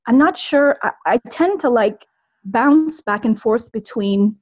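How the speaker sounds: nervous caller, trembling voice; shaky nervous voice. Real, not acted. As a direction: voice shaking with real nerves. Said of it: "my voice is shaking".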